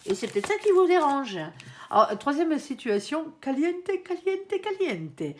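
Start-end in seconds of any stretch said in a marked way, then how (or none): 3.4-5.4 slow, high, teasing drawl on each word; stretched-out playful caliente; mock sultry. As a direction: purr it like a cheeky hot-stuff tease. Playful spicy card announcement.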